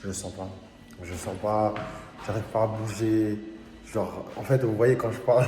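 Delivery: speaking with an anaesthetized lip; words slurred by dental numbness; numb mouth. Real, not acted. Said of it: "je viens de sortir de chez le dentiste. Là, je fais anesthésie". (bouche anesthésiée)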